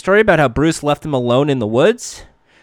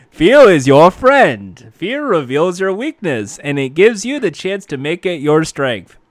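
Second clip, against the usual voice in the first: crappy retry; 5 dB louder than usual. Acted. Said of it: "a crappy".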